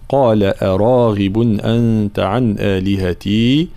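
slow, careful tajweed reading; slow recitation. Shown as a demonstration. Teacher models the verse for students, slow recitation. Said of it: "حرف الغين صفة الجهر".

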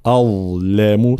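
slow أظلم, light hamza and clear ظ; careful tajweed articulation. Shown as a demonstration. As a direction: keep hamza and lam thin around heavy ظ in أظلم. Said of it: "لابد من ترقيق الهمزة". («أظلم» بهمزة ولام مرققتين وظاء مبينة)

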